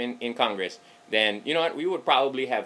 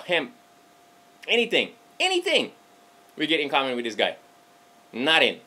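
indignant rant; 4 semitones higher than usual. Real, not acted. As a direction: hammer home there's nothing in common. Ranting against Romney.

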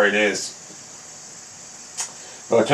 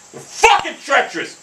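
exasperated; 9 semitones higher than usual. Real, not acted. Angry about greens.

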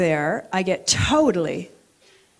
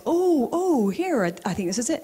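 flustered; 5 semitones higher than usual. Retold or imitated. Flustered, pretending to work there.

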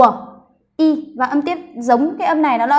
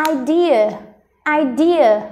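"Idea" with the second syllable raised; stress on second syllable; much slower than usual. Shown as a demonstration. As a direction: lift "de" in "Idea", then let it fall. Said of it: "đọc cao âm thứ hai này".

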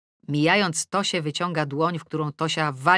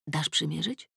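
asked quietly; 6 dB quieter than usual. Acted. Mother quietly asking her daughter to try on the skirt. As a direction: ask her quietly, almost secretly. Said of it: "Pytam Tosię cicho".

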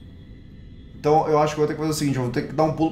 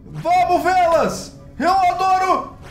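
ecstatic shouting; much slower than usual. Real, not acted. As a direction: scream with joy at the candles. Euphoric after success.

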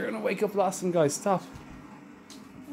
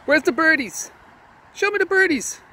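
pet talk; 11 semitones higher, 4 dB louder than usual. Real, not acted. Baby-talking to the dog.

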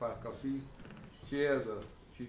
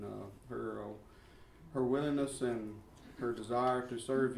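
earnest spoken prayer to God. Real, not acted. Brother-in-law praying over Pam before her class.

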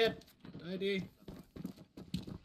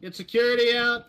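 loud barked command; shouted order; 6 semitones higher, 5 dB louder than usual. Real, not acted. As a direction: call it out across the squad. Ordering squad to post security.

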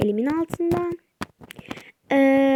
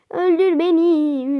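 slow, higher and louder öldür beni with a falling öldür; dramatic taunt; 4 semitones higher, 5 dB louder, slower than usual. Acted. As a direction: dare the enemy with theatrical weight. Taunting enemy to kill her. (yavaş, yüksek ve abartılı öldür beni)

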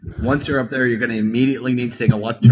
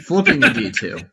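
hyped gamer bro; 8 semitones higher, 3 dB louder than usual. Shown as a demonstration. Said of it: "say it like a gamer".

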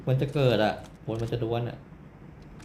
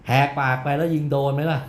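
louder, shouting to prove he has energy; deliberate gamer yell; loud on purpose; 4 semitones higher, 6 dB louder than usual. Shown as a demonstration. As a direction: belt it out to answer the viewer. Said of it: "เสียงเหมือนคนไม่มีแรงเลย".

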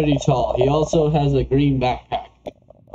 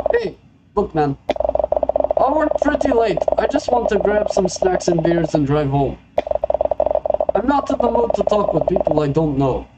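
higher-pitched put-on Russian accent; 3 semitones higher than usual. Gas station customer to a searching stranger, Russian accent. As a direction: play a curt stranger with a light Russian accent. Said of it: "I don't know why I made him Russian".

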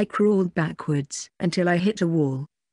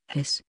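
fox hiss; 4 semitones lower, 6 dB quieter than usual. A narrator's reading. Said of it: "I hissed at the voice".

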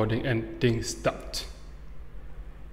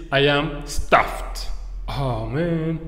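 slow, drawn-out overfed groan; stuffed; much slower than usual. Shown as a demonstration. Teacher demonstrates slang for too full, stuffed. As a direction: drag it out like a full belly.

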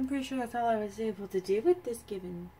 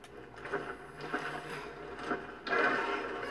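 sigh; 6 dB quieter than usual. Real, not acted. Player sighs during play.

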